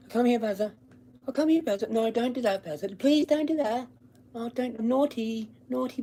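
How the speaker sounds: high, pleading, hammed-up owner voice; mocking soft dog owner. Mocking a timid owner calling his dog, high and pleading. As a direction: squeak out weak pleas, then lose it. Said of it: "trying to be quiet".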